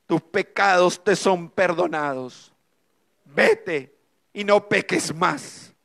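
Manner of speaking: slow, solemn gentle words; a slow, reassuring divine voice; God's voice. Retold or imitated. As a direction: intone it calmly as scripture. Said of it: "una voz que está en la palabra de Dios que dice".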